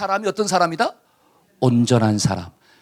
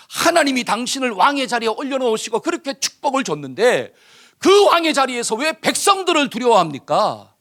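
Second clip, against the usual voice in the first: stern rebuke; 4 semitones higher than usual. Acted. Samuel rebuking Saul for disobeying God, raised stern voice. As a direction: confront him, demanding why he feared the people.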